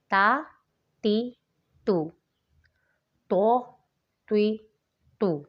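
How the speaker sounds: تا light and thin, تو full and heavy; contrast تا and تو. Shown as a demonstration. Teacher drilling تا against تو for students, careful contrast. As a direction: make تو heavy from the throat. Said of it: "فرق تا اور تو میں".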